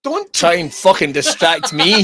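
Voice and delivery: slow mock scolding with a laugh; laughing rebuke. Real, not acted. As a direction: scold through amusement. Mock scolding after shiny distraction, laughing.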